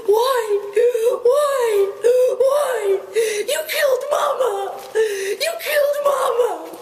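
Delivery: put-on very high, sobbing, shrieking cries of a lost child; panicked baby elephant. Orphaned baby elephant calling for its killed mother, very high sobbing shrieks. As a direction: wail for Mama through tears, terrified and hurt.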